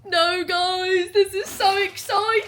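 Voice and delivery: high and loud, bursting with joy; excited squeal. Real, not acted. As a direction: squeal it to the viewers. Opening exciting parcel.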